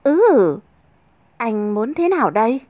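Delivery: shy reply. Acted. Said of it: "hơi e thẹn đáp".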